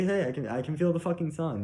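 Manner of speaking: not angrily, gentle. Retold or imitated. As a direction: say it like a kid in awe. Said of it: "you know, like that".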